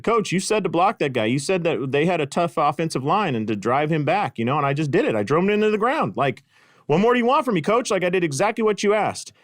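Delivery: pleading, wound-up player's protest; indignant protest. Retold or imitated. Protesting to coach after the play.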